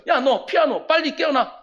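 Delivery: a preacher shouting the instruments awake; rousing the instruments. Acted. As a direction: summon each instrument like a bandleader. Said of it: "그래서 악기를 다 깨우는 거예요".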